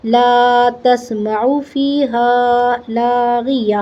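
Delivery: "لا تسمعو فیہا لاغیہ" slow, long vowels, final breathed h; waqf with ha. Shown as a demonstration. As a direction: stretch "لا تسمعو فیہا لاغیہ" and stop on an audible h. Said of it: "ہا کی آواز نکالنی ہے". ("لا تسمعو فیہا لاغیہ" لمبے مد، آخر میں ہا)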